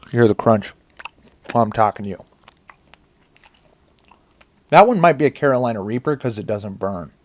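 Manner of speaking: talking while chewing; mouth full. Real, not acted. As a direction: chew and talk through the mouthful. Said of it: "I'm chewing that bad, bad boy".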